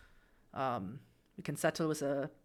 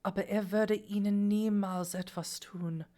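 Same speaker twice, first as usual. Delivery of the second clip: grandmother speaking Hochdeutsch; plain Hochdeutsch, lightly acted old woman; standard German. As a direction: speak regular German, no regional dialect. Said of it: "she's gonna speak regular German".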